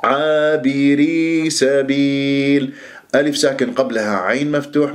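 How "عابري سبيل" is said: slow, measured tajweed recitation; Quran recitation demo. Shown as a demonstration. Teacher models a Quran verse for students, slow recitation. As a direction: stretch the long vowels evenly. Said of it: "مد طبيعي حركتين".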